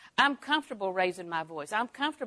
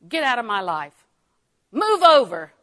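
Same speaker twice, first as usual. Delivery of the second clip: hateful shove; 2 semitones higher, 11 dB louder than usual. Retold or imitated. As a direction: push someone aside with your voice. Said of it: "That's what hatred is".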